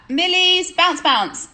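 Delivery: slow, loud, high shout-out; drawn-out loud announcement. Real, not acted. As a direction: call the name out, stretched. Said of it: "There's a shout out".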